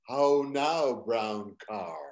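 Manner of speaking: "Oh, no, brown car" with rounded, open vowels; speech-drill voice. Shown as a demonstration. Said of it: "it took me years of saying".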